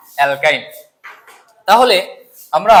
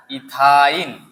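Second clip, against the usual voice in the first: drawn-out model word; 3 semitones lower, much slower than usual. Shown as a demonstration. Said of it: "আমি যেভাবে বলি এইভাবে করো".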